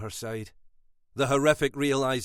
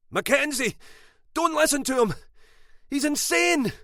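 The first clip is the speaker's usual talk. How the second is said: much higher, louder warning shout; 6 dB louder than usual. A narrator's reading. Brother shouting to his sister to ignore her husband. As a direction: call out a warning across the room. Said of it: "Gavin shouted".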